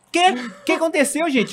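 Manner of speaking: surprised. Retold or imitated. Shocked at lost two hours.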